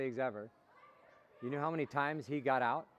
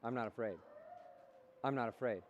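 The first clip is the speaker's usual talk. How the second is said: quiet self-talk; 5 semitones lower, 7 dB quieter than usual. Shown as a demonstration. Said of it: "tell yourself that".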